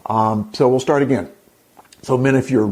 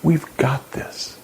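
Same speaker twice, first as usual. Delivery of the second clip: mock whisper; 2 semitones higher, 3 dB quieter, slower than usual. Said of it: "she says".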